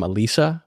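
"Elisa" with a long EE in the middle; Italianate pronunciation. Shown as a demonstration. Husband giving his romantic version of her name, "Elisa" with long EE. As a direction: say "Elisa" as eh-LEE-sa. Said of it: "I would pronounce her name".

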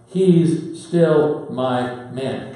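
slow and deliberate, leaning on each word; Jesus tells the other disciples, slow and firm; emphatic reassurance. Retold or imitated. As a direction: announce it proudly, slowly. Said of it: "to the rest of the disciples".

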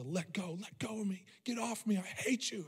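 high-pitched mock yell at restrained volume; retold screaming. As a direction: imitate a furious child struggling, without real volume. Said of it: "screaming at her".

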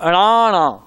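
ਅਣਾ said twice with a clear retroflex ਣ, falling; careful pronunciation. Shown as a demonstration. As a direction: teach ਅਣਾ slowly and crisply. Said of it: "ਦੋ ਵਾਰੀ ਅਣਾ".

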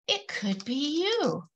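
plain reading voice

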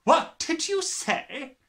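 slow, high, loud sharp demand; sharply. Acted. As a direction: snap the question at the girl. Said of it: "she said sharply".

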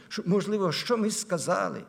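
normal talking voice

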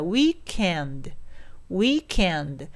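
"weekend" with k joined straight into "end", no u; linked weekend. Shown as a demonstration. Teacher models the link for learners, joined "weekend". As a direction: link it as "wee-kend". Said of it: "そしてすぐエンドにつながりますから".

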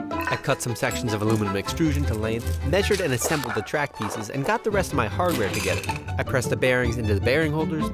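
composed video narration; explainer voice-over. A narrator's reading. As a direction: narrate the build steps evenly, as voice-over. Recorded voice-over of build steps.

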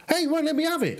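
real exasperated cry; frustrated outburst. Real, not acted. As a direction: protest at the game that blocks you.

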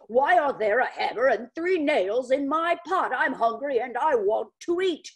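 gruff, indignant grumbling; grumpy and confused. Acted. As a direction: complain loudly, confused. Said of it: "so confused and angry".

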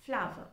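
"flower" as two syllables, FLAH-vuh; correct pronunciation. Shown as a demonstration. Teacher confirming how F L O U R sounds, correct pronunciation. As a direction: say "flower" to rhyme with power. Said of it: "The pronunciation of F L O U R".

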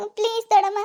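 last desperate please. Acted. Niece makes a last plea to her aunt with a nervous laugh.

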